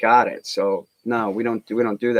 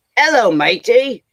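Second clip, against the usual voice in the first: high, loud put-on English accent; 12 semitones higher, 5 dB louder than usual. Showing off accents he admits he isn't great at, doing an English guy accent. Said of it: "I can do an English guy".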